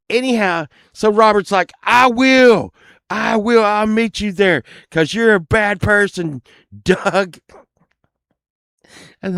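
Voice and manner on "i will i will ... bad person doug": mock acceptance. Robert accepts the fight.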